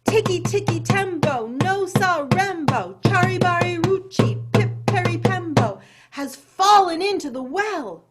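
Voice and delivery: high, loud, urgent recital of the name; hammed-up panting urgency. Chang out of breath tells mother, urgent panting. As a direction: rattle off the name like a panting, alarmed boy. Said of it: "he panted".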